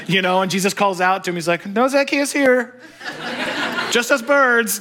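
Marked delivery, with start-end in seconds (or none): 1.7-4.8 high, playful mock voice; lightly voiced, high-pitched decoy reply; pretend bird in a tree. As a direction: play innocent from a hiding place, pitched up. Pretends birds answer from the tree.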